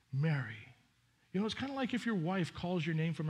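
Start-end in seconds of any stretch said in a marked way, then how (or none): 0.1-0.7 Mary, lower and gentle, almost a caress; tender call. Acted. Preacher savoring Jesus tenderly naming Mary. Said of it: "this always gets me".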